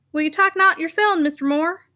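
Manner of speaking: a hint of broad Yorkshire, offering a drink; Yorkshire constable voice. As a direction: bluff northern workman, lightly voiced. Sugden voiced by narrator.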